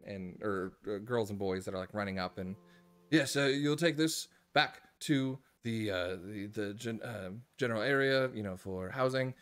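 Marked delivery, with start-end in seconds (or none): 3.1-9.3 put-on chirpy old-fashioned bellhop. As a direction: greet the guests like a chirpy old-time bellhop. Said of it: "He goes".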